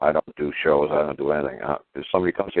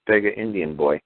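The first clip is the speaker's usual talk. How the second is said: mock Indian beggar boy; 4 semitones higher than usual. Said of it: "He's saying".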